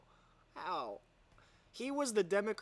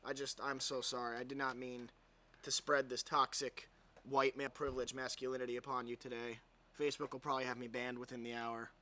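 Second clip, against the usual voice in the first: sarcastic apology; 4 semitones lower than usual. Pretend. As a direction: fake remorse, dripping irony.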